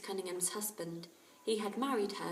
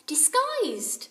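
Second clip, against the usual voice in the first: much higher, louder, eager recall; excited; 9 dB louder than usual. A narrator's reading. Lucy Ann suddenly remembering Bill's disguise, excited. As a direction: blurt it out as it comes to you.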